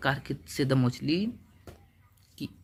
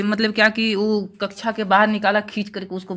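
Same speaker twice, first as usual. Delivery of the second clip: dramatic emphasis; 7 semitones higher, 10 dB louder than usual. Acted. Teacher dramatizes dragging out.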